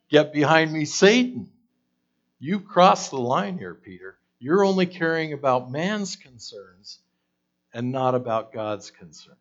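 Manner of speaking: high, loud stern rebuke; Jesus' forceful rebuke. Retold or imitated. Jesus rebuking Peter for opposing him, loud and stern.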